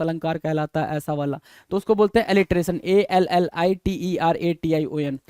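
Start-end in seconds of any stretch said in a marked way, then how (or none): 2.8-5.2 each letter clear for dictation; slow spelling. Shown as a demonstration. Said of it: "spells the word letter by letter". (धीरे-धीरे spelling बोलना)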